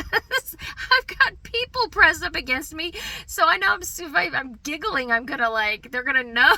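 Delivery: high, loud, through real laughter; giggly panic. Real, not acted. Mom afraid fellow passengers will notice her giggling, laughing helplessly. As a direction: blurt it out while breaking into giggles.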